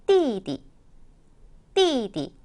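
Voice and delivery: plunge on 띠, lightly tack on 디; fourth plus neutral tone. Shown as a demonstration. Teacher demonstrating tones, 띠디 sharp fall then light ending. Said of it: "확 떨궜다가 옆에 살짝 붙여주는 느낌".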